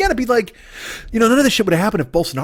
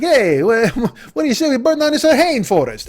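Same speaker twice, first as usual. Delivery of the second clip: higher, excitable put-on politician voice; hammed-up politician's pitch; 5 semitones higher than usual. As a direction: pitch it like a mock scheming leader. Acting out Bolsonaro's pitch in office.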